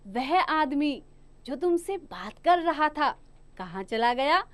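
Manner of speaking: measured example sentence with a stop after आदमी and था; pauses at commas. Shown as a demonstration. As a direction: break after "आदमी" and again after "था". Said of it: "ऐसे ही दूसरा उदाहरण है".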